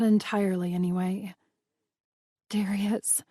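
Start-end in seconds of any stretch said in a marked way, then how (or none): 2.5-3.2 breathed name. Acted. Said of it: "I breathed".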